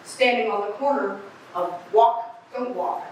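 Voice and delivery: a lightly voiced raspy street eccentric rambling to passersby; raspy street oddball. Eccentric on the street corner addressing the crowd, lightly raspy. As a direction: play a scratchy-voiced crank holding court on the corner. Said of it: "You don't like my raspy voice".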